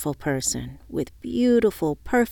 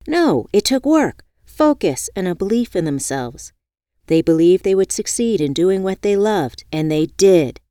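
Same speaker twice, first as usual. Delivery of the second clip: stating firmly; 2 semitones higher, 6 dB louder than usual. Acted. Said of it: "she stated".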